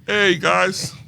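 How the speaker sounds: a jokey, hammed-up British accent; a put-on British accent; mock British accent. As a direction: play it as a bad British impression, "Hey, guys". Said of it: "How'd you like my "Hey, guys" British accent".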